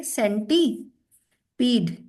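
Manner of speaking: सेंटीपीड said slowly as sen-ti-peed; drawn-out dictation of सेंटीपीड. Shown as a demonstration. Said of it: "This is the correct spelling for centipede".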